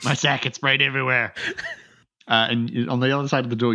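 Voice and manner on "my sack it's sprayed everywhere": higher-pitched mock dismay; hammed-up panic over a mishap; dismayed beard hater. Beard hater's sack bursts.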